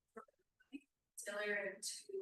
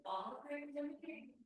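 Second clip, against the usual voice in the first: higher, louder lecturing of the youth; mock nagging leader; 7 semitones higher, 5 dB louder than usual. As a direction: play a leader pressing the group. Acting out what not to tell youth.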